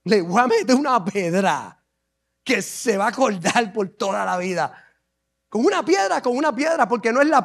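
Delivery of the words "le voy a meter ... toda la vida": low, soft confident boast; David tells Saul about his stone, quietly and low; cocky young David. Acted. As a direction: promise it quietly and low, sure of himself. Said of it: "¿Y con qué lo vas a derrotar?".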